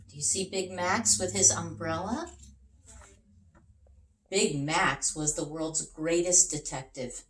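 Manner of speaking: lively, expressive storybook narration; reading to children. A narrator's reading. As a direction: read it like a bedtime picture book for kids. Reads picture book to children.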